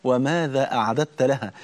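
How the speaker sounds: وماذا أعددت لها drawn out slowly, each word weighed; solemn slow refrain; slow motto. Shown as a demonstration. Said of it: "الشعار اللي بنرفعه".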